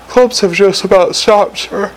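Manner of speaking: a hint of a troll sergeant reporting. A narrator's reading. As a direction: report in as the troll, lightly played. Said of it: "he reported".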